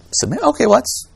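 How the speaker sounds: a hint of casual, pleasant surprise; relieved listener. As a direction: react aloud as a mildly relieved first-time hearer. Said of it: "they're, they're like".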